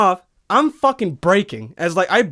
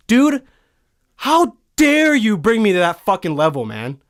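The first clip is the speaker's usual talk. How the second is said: indignant scolding; 3 dB louder than usual. Acted. Mock-scolding the absent truck driver.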